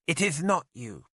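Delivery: put-on high, giggly young woman's voice; light, teasing girl; girlish Olwyn. Olwyn speaks to the prisoner.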